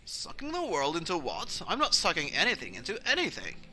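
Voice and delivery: swooping, indignant protest; mildly baffled, affronted dad; indignant denial. Acted. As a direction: protest the accusation, punching the key words. Dad denies the accusation.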